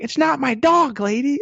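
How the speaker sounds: high-pitched mock indignation; indignant protest. Neighbor answers the old lady's yelling, high mock indignant retort.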